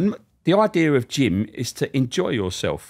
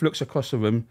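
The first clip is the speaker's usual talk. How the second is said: ordinary talk, nothing marked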